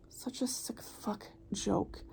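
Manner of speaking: real bitter whispered aside. Real, not acted. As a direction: breathe it out slowly under your breath. Bitter muttered aside after sigh.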